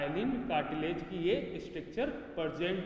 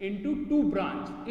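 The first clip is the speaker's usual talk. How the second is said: slow dictation; much slower than usual. Shown as a demonstration. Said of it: "कितनी branch".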